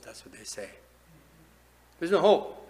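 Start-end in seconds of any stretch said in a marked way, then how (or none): 2.0-2.7 high, loud cry of "There's no hope."; loud mock despair. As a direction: shout "There's no hope." like a man giving up. Same quote much louder.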